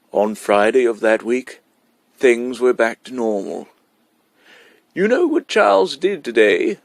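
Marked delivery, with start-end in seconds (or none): 4.9-6.8 put-on higher, louder, a child half in awe; slightly awed. A narrator's reading. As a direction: burst out with news that amazes you. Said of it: "in a voice slightly awed".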